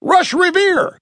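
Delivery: high-pitched distant hail; drawn-out high call. A narrator's reading. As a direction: call a name along the ship. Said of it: "a voice called from the front".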